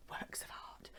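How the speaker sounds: barely voiced, whispered aside; hushed echo. Real, not acted. Crafter echoing her own phrase about artists' cards, hushed aside. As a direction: drop to a very soft whisper, as if to yourself.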